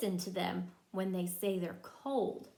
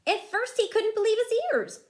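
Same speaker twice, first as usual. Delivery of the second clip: dramatic narration; 11 semitones higher, 6 dB louder, faster than usual. A narrator's reading. Dramatic storybook build.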